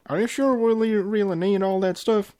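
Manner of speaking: reading a cartoon dialogue scene; acted pony quote. Reading Applejack quizzing Big Mac.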